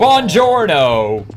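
slow, drawn-out hammed-up Italian hello; mock Italian greeting. Mocking the Italy map, slow Italian-accent greeting. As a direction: stretch it like a cartoon Italian.

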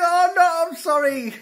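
very high mock wail of apology; retold panicked apology. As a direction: re-enact a horrified apology, pitch shooting up. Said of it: "And I'm like".

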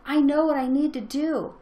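acted-out touch of jubilation; celebrating.

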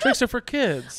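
high, slow, sweet slogan; sing-song sweet ad tagline. Acted. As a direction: tease sweetly, drawing it out.

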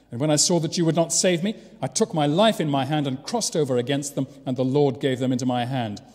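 declaimed scripture quote; scripture reading. Acted. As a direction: read the verse out firmly to the congregation. Reads scripture aloud.

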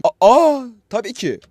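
high startled gasp then cover-up; caught-out surprise. Acted. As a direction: act caught out, then recover. Mother caught off guard. (yakalanmış anne, yüksek şaşkın ses)

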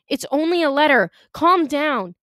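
high, urgent reassurance; anxious placating. A narrator's reading. Boy to girl raising her blade, anxiously placating. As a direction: hurry to defuse the threat, pitch up.

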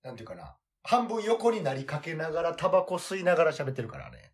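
talking around a cigarette; smoking while speaking, half lying down; cigarette in mouth. Real, not acted.

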